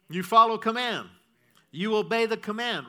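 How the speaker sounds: preacher booming the command; loud emphasis. Real, not acted. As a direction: drive the point home loudly. Preacher stressing obedience.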